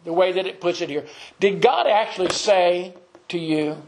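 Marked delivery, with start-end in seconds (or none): 1.4-3.8 "actually" lifted in pitch, doubting question; Satan's questioning inflection. Acted. Satan to the woman in the garden, questioning inflection. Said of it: "I think, the inflection would be".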